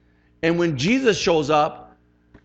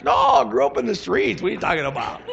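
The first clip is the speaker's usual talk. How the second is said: mock indignant retort; 4 semitones higher than usual. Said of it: "Pam's like".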